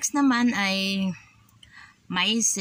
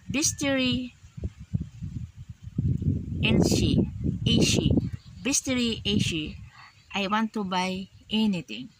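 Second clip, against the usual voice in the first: demo shopping line; 3 semitones higher than usual. Shown as a demonstration. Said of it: "sabi mo nga".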